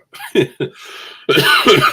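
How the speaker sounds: a bright burst of real laughter; laughing. Real, not acted. Host laughing after his Batman impression.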